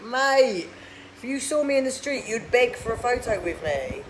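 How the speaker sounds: indignant retort. Pretend. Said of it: "And I think".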